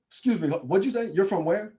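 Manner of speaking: puzzled disbelief. Retold or imitated. New Yorker questioning his Nebraska roots, puzzled disbelief. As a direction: imitate someone who can't believe their ears.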